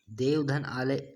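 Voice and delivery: देव धन आलय said as three separate words, each kept apart; split into parts. Shown as a demonstration. Teacher showing students the sandhi split, words said separately. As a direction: break देव धन आलय into its pieces, one by one. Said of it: "देवालय का ये संधि विच्छेद है".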